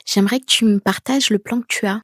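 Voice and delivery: steady, assured ask without pleading; calm direct request. Shown as a demonstration. Teacher shows the confident way to ask, calmly direct. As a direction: state the wish simply. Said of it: "J'aurais dit plutôt".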